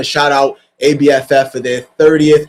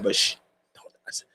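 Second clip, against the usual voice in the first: playful, very soft hush; mock hushing; 6 semitones lower, 13 dB quieter than usual. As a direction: drop suddenly into a near whisper. Hushing a secret just revealed.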